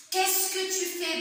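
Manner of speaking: slow, lifted question tune; rising intonation. Shown as a demonstration. Teacher showing how intonation rises in a question. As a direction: raise the voice through "fais".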